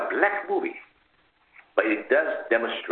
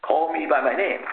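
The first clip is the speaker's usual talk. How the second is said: indignant shout; 5 semitones higher than usual. Retold or imitated. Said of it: "vehemently disagreed".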